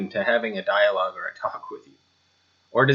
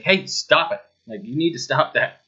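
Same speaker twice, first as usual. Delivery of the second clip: mild retold yell; 4 semitones higher, 3 dB louder than usual. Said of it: "that's helping yelling".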